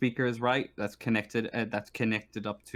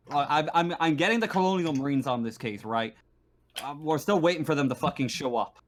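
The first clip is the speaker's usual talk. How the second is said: lightly voiced marshal, exasperated and defensive; mildly heated officer justifying himself; frustrated station marshal; 4 semitones higher, 3 dB louder than usual. Marshal defending the airlock lockdown, frustrated.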